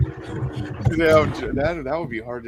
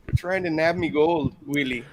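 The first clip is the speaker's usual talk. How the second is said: mock Irish accent.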